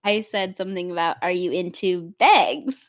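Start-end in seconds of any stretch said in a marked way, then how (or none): 1.2-2.9 slow, with "bags" like "begs"; Midwest pronunciation. Retold or imitated. Midwesterner retelling a question to a client, slow raised-vowel "bags". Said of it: "I'm from the Midwest".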